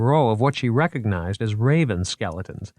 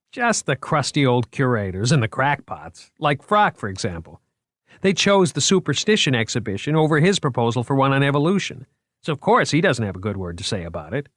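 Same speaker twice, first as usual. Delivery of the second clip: put-on higher, lively, eager young curator; proud museum man showing off his finds; 5 semitones higher than usual. Moriarty's character voice.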